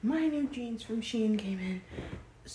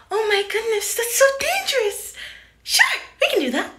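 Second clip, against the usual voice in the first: high, loud breathless starlet voice; Marilyn Monroe impression; 11 dB louder than usual. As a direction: coo it like a bombshell. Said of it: "I wanna do an impression of her".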